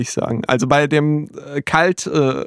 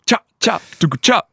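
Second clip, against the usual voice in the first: drum imitation; 4 semitones higher than usual. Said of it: "noch keine Drums".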